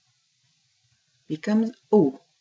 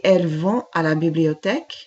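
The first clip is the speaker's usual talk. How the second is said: fast, run-together French sentence; brisk, joined-up reading; quick model sentence; 4 dB louder, faster than usual. Shown as a demonstration. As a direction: rattle it off at native speed. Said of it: "Let's slow that down a little bit".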